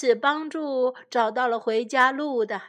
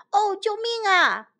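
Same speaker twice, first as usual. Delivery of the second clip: a higher, lighter frightened call, acted for children; mock cry for help; 8 semitones higher than usual. Lost old king crying out to the woods, mock fright. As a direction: squeak out a pretend plea for help. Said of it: "国王叫道".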